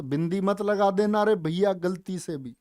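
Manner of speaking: ordinary delivery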